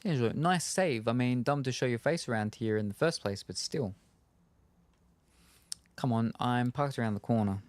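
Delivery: lightly voiced gravelly informant; a hint of a gruff, gravelly contact. D'Angelo pulls the player into the shadows, lightly gravelly voice. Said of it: "the gravelly voice sure does".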